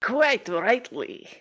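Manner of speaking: lightly put-on Russian accent; a deliberately bad Russian accent, only hinted at. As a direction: councillor interjecting in a faint mock Russian accent. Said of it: "bad Russian accents".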